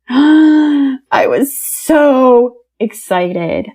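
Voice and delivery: real gasp into a slow, crying whisper; tearful. Real, not acted. Recalling the birthday text from his wife, a real tearful whisper. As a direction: choke up and let the words come out in a whisper.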